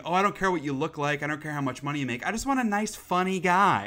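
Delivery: lightly voiced women, pitch climbing at the end; imitating women. Quoting women on what they want, lightly mimicking. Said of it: "like, women saying".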